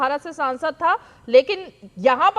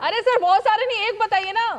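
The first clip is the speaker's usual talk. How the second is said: laughing; 6 semitones higher than usual. Real, not acted. Anchor laughing, pressing for answer.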